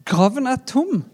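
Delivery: high excited shout of joy; excited cry. Acted. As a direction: burst out with the news. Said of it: "sa jentene".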